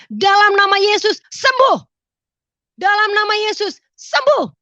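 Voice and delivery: high, loud faith declaration; forceful prayer shout, punched ending; commanding healing prayer. Retold or imitated. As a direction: cry out a command to heal.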